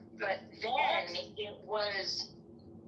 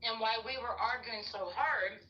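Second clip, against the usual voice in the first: talking while chewing nuts; mouth full. Real, not acted. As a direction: speak around a mouthful. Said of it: "Sorry, I have nuts in my mouth".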